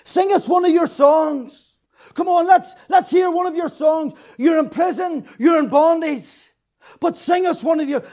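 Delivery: put-on sneering Babylonian taunt; mocking taunt. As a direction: jeer at the prisoners like a captor. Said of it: "Now they mock them".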